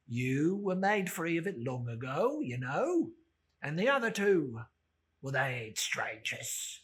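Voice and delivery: put-on a crusty old rag dealer, chuckling; sly old Joe. Old Joe inviting the thieves into the parlour, gruff and sly.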